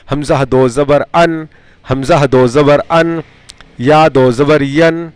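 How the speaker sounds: measured, rhythmic letter-by-letter chant; spelling drill recitation. Shown as a demonstration. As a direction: recite it evenly for pupils to repeat.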